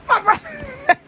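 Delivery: high, slow words through laughter; real laughing. Real, not acted. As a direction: crack up while talking. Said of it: "I'm dead".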